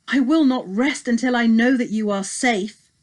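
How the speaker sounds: a father's anxious promise; worried old king. Acted. Agis answers his son.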